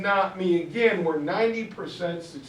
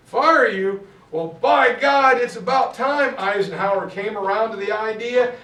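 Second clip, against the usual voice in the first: louder, booming Churchill on the phone; blustering Churchill; 3 semitones higher, 6 dB louder than usual. Retold or imitated. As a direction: bellow it like an indignant prime minister.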